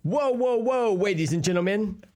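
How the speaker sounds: very high, silly socialite with muddled Rs; Bruce Wayne. Acted. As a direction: address the gala crowd in a high, speech-impaired voice. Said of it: "I'm introducing Bruce Wayne".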